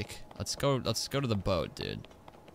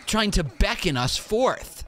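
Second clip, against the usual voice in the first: mock english class; 9 semitones higher, slower than usual. Mock literary analysis voice.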